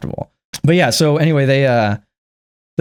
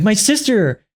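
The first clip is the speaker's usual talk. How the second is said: mock grief; 8 semitones higher, much slower than usual. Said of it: "she's like".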